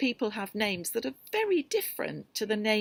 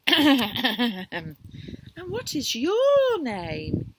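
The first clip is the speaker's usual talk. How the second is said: high, slow polite question; polite little porcupine asking; small voice, careful and polite; polite inquiry; 4 semitones higher, 7 dB louder, much slower than usual. Acted. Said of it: "he inquired".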